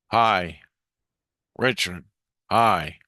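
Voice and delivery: lightly imitated inner voice in single words; isolated words, each on its own; one-word talker. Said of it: "That's how he talks. One words".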